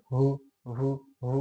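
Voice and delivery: হু with an added h breath from the throat; wrong breathy version. Shown as a demonstration. Teacher shows the wrong হু instead of উ. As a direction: demonstrate the mistake হু with an h sound. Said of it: "এমনটাও না".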